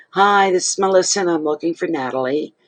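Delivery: put-on young manicurist phoning a new client, chirpy greeting; bright phone greeting. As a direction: play the polite young caller.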